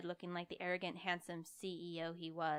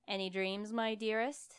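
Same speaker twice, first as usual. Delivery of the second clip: teasing lilt rising higher and louder; sing-song teasing greeting; 4 semitones higher, 5 dB louder than usual. Acted. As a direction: croon it playfully. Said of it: "in a sing-song voice".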